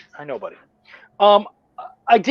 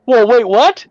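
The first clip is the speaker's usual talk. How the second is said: startled whisper; 4 semitones higher, 6 dB louder than usual. Retold or imitated. Shocked to find book released.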